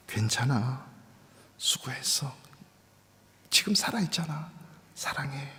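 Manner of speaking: put-on soft whispered comfort to your inner child; a hushed, tender self-reassurance; comforting yourself. Shown as a demonstration. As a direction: whisper it gently, like soothing a hurt kid. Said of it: "스스로를 위로해 주래요".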